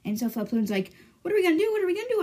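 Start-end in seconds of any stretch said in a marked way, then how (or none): 1.2-1.7 high, louder panicked question. Retold or imitated. Flapoon panics after the shooting. 1.7-2.2 even higher panicked repeat; rising panic, voice climbing; more panicked. Retold or imitated. Flapoon panics after the shooting.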